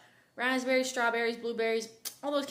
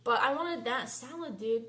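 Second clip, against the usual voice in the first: annoyed rant; 5 dB louder than usual. Real, not acted. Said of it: "sorry about that rant".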